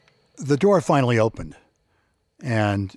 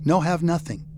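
put-on high, scared begging voice of a small boy; a kid cornered by a bully, begging him to stop; frightened pleading; 5 semitones higher than usual. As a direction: plead to be left alone, voice pitched up in fear.

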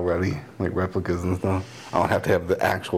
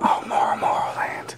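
whisper. Pretend. Repeated as a whisper.

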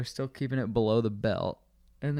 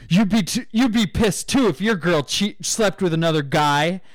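loud, higher aggrieved yell; loud customer complaint; 6 semitones higher, 7 dB louder than usual. Retold or imitated. Jilted customer shouting about his girlfriend at the bar, loud and higher. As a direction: shout your grievance at the bar.

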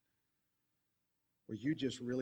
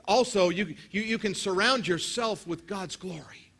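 higher and louder preaching; full-force preaching; 8 semitones higher, 9 dB louder than usual. Real, not acted. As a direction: build the crowd up, high and loud.

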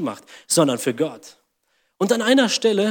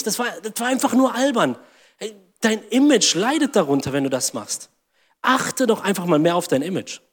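scornful wife; 3 semitones higher than usual. Pretend. Preacher voices the scornful wife.

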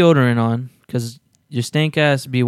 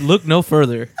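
infomercial; 3 semitones higher than usual. Pretend. Mock infomercial pitch.

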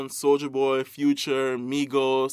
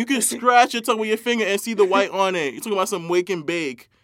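disgusted rant; 4 semitones higher, 5 dB louder than usual. Real, not acted.

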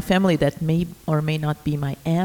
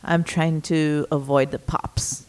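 muffled through shirt; 3 semitones lower than usual. Real, not acted. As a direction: voice muffled by fabric. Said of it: "talking through her shirt into the microphone".

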